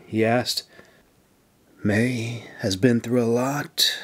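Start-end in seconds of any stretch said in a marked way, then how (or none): 1.8-4.0 reassuring. Acted. Officer gently reassuring a friend about the injured women. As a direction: soothe his fears about his friends. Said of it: "she assured him".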